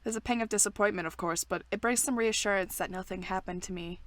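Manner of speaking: measured, even read-aloud; story narration. A narrator's reading. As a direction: read the game's narration evenly. Reads game narration aloud.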